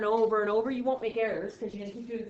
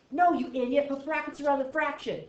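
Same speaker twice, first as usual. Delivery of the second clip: belittling calculator; 4 semitones higher than usual. Acted. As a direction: scold someone for a silly mistake. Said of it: "I wish it belittled you".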